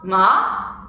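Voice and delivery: rising "ma"; questioning upward "ma"; second tone. Shown as a demonstration. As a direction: start "ma" low and glide it up. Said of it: "Once again".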